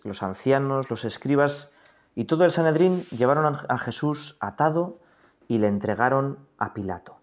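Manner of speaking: measured, solemn reading of the Passion; scripture reading. Acted. Priest reading the Passion to the congregation, solemn. Reads Gospel passage in meditation.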